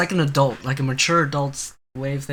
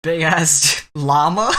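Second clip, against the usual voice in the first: slow, louder words broken by real laughter; laughing; 4 dB louder, much slower than usual. Real, not acted. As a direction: crack up mid-word while naming it. Laughing at a thumbnail.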